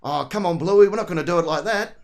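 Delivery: tongue shifted for a broad country Australian accent; old country accent. Shown as a demonstration. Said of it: "get the old country accent come out".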